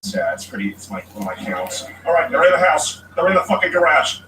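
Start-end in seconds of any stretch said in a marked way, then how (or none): 2.1-4.2 paranoid voice. Acted. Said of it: "I do voices all the time".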